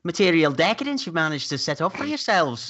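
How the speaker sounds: artistically disreputable hipster. Acted. Tig appraises the mother's bourgeois house, hammed-up hipster. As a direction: put on an over-intense bohemian snob. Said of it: "over-intensive arti-, artistically disreputable".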